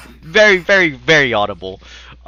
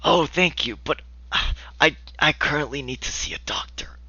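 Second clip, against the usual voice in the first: put-on whispering old man; 4 semitones higher than usual.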